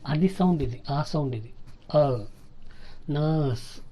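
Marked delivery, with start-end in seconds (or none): 3.1-3.8 నర్స్ with a silent r and long central vowel; r-less pronunciation. Shown as a demonstration. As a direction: drop the r in నర్స్. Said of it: "not నర్స్".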